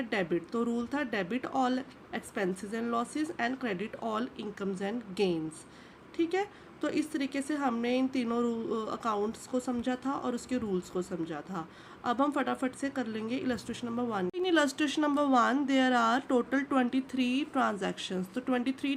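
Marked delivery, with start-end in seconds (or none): 1.1-5.5 very slow, each word spaced out; slow dictation. Shown as a demonstration. Teacher dictating the golden rule to the class, very slow. 14.3-18.3 slow, spaced, for copying; slow read-out. Shown as a demonstration. Teacher reading the exercise heading to students, slow.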